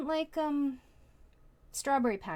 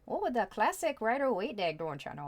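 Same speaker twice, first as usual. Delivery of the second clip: playful mock Minnesota accent, louder; 4 semitones higher, 5 dB louder than usual. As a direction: toss off a light, hammed-up Minnesota accent. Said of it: "suddenly we got a Minnesota accent".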